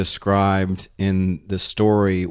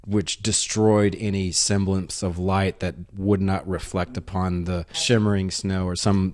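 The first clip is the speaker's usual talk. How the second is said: imitating Finnish prose. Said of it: "that's not a very good imitation".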